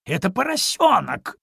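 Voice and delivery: loud, high, indignant dog; despairing outcry. A narrator's reading. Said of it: "в отчаянии пожаловалась собака". (в отчаянии, громко и высоко)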